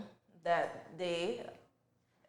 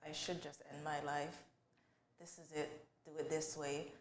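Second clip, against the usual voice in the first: inner voice; 4 semitones lower, 13 dB quieter than usual. Retold or imitated. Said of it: "I was like".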